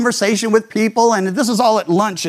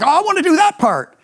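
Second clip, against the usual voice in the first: put-on higher, keen little-boy voice; eager child; 10 semitones higher, faster than usual. Ten-year-old volunteering for the role, eager and high. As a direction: play the kid shooting his hand up.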